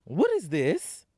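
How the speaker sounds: slow, stern mother asking; a mother confronting her daughter; the speaker as stern mother. Acted. Mother demanding about the Walkman, slow and stern.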